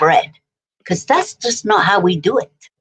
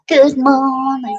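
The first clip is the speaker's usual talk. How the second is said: laughing; 7 semitones higher, much slower than usual. Shown as a demonstration. Repeats greeting, laughing.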